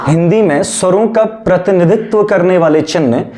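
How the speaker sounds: slow, word-by-word dictation; classroom dictation. Shown as a demonstration. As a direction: dictate slowly for students taking notes. Dictates notes to students.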